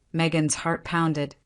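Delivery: usual speaking voice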